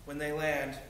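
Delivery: measured poetry reading, line by line; poem recitation. Acted. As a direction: read it as a short poem, settling at the end.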